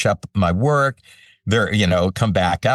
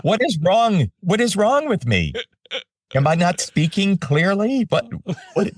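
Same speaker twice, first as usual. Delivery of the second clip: much higher, comically baffled rant; mock exasperation; 12 semitones higher than usual. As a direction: throw up your hands, pleading and puzzled. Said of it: "He goes".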